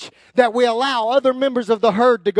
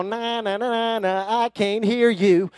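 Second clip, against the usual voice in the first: mock childish taunt; slower than usual. Shown as a demonstration. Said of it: "stick your fingers in your ear and go".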